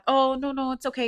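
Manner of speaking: high-pitched imitated brush-off; polite refusal. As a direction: act out politely declining, voice lifted. Retold polite refusal of photo.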